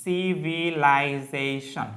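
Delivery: সিভিলাইজেশন drawn out syllable by syllable; teacher dictating সিভিলাইজেশন very slowly; slow spelling-out. Shown as a demonstration. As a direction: stretch সিভিলাইজেশন slowly so students can write it. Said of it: "civil এর noun কি?".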